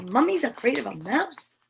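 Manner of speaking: soft, quiet, tiny voice; small quiet voice. Acted. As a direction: ask it like a timid mouse. Mouse asks in small voice.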